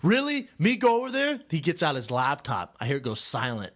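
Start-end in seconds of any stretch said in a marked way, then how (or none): 0.0-1.4 higher, mock disbelief at being sent; hammed-up reluctant husband asks if it's really him; incredulous husband. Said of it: "the husband go".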